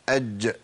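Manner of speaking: "أج" with a short bouncing release on the jeem; with qalqalah. Shown as a demonstration. Teacher repeating the still jeem for students, "أج" with qalqalah bounce. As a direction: release the closing jeem of "أج" into a tiny echo. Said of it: "لابد من القلقلة".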